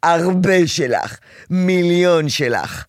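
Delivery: slow, tender and drawn out; warm reassurance. Shown as a demonstration. Counselor shows mother how to answer her daughter tenderly. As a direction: lovingly reassure the child. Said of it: "את יכולה אפילו להגיד".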